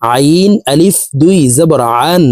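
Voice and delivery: আন closed on a clear n; tanween with n. Shown as a demonstration. Teacher showing double zabar, n-ending আন. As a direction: spell it slowly, then sound আন with its n. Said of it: "নুন যুক্তভাবে উপরের দিকে ধাবিত করে".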